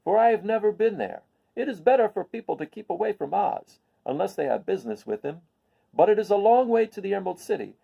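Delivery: Boq, grave. Acted. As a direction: speak as the solemn Munchkin Boq, warning gently. Boq voiced in story.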